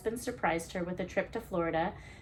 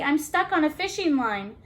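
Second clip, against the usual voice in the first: panicked; 8 semitones higher, 6 dB louder than usual. Acted. Trapped Betsy explains, panicked.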